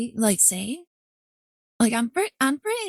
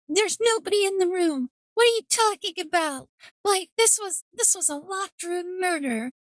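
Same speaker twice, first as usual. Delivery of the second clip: incredulous retelling; 7 semitones higher than usual. Retold or imitated. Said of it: "They're like".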